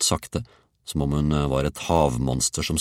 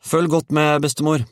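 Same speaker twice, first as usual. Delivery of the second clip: put-on high, loud child's shout; boy calling out; 13 semitones higher, 6 dB louder than usual. A narrator's reading. Georg tells grandmother to watch him, high shout. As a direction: call up for her attention. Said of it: "ropte han".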